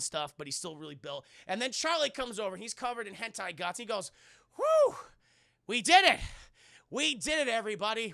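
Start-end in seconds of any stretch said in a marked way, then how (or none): 4.6-8.1 very high, loud celebrating; giddy mock cheer; excited cheer. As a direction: cheer it out in relief. Charlie celebrates the victory.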